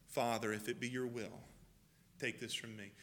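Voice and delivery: low, soft pleading prayer; Jesus praying alone in the garden, hushed. Acted. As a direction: pray it almost under your breath.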